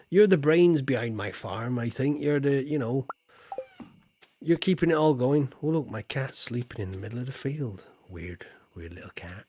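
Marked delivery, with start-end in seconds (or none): 5.9-9.4 whisper. Real, not acted. Sleeping cat in the field.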